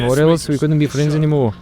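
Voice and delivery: put-on a light slip into an Irish accent. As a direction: say it with a mild Irish lilt. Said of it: "why the fuck am I doing Irish accent".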